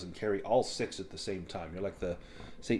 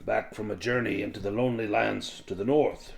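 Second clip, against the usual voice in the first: louder, tired traveller's tale; weary dwarf; 5 dB louder than usual. Acted. Floki telling Thrannen of the journey, lightly voiced weary dwarf. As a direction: tell of the lonely lands, wearily. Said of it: "their shoulders kind of sigh".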